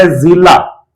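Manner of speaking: जिला with a buzzing z, ज़िला; nukta z sound. Shown as a demonstration. Teacher demonstrating nukta sound: जिला as ज़िला. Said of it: "जैसे ही नुक्ता लग गया".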